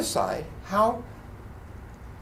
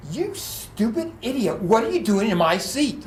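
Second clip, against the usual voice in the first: indignant outburst, higher on the opening insult; mock angry yelling; 5 semitones higher than usual. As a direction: imitate an irate passenger. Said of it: "He started yelling".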